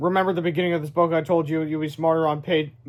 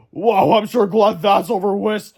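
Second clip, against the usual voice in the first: relieved slow voice; 4 semitones higher, 5 dB louder, slower than usual. Acted. Krabs relieved after rescue.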